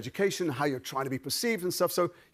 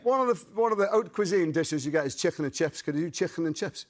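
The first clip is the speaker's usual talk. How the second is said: Scouse demonstration; Liverpool accent; 2 semitones higher than usual. Shown as a demonstration. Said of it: "let's start with Liverpool".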